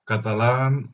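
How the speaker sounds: Spanish-accented French, rolled r; foreign accent in french. Real, not acted. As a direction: Catalan speaker's French accent. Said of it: "mon français, c'est pas très bon".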